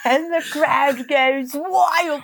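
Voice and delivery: slow, drawn-out play-by-play parody; mock sports commentator. Calling the game as the crowd goes wild, mock commentator. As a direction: play the commentator, stretching the words. Joins the mock arena announcing.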